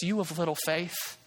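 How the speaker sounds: softened, unhurried question; mild, blameless reproach; gentle, not scolding. Acted. Jesus catching sinking Peter and asking why he doubted, gently. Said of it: "I don't think he says this to him in a way that's scolding".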